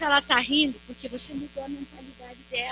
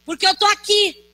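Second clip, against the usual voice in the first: Jesus reassuring; 8 semitones higher, 4 dB louder, slower than usual. Retold or imitated. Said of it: "Ele diga".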